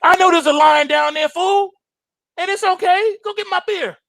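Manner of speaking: hammed-up husband yelling for beer; mock bossy husband. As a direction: bark orders at the wife. Acted demanding husband skit.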